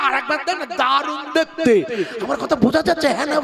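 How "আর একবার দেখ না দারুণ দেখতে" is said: high, wheedling tempter's voice; tempting sing-song. Acted. Satan tempting a man to look again, high and wheedling. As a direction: coax him like a whisper in the heart.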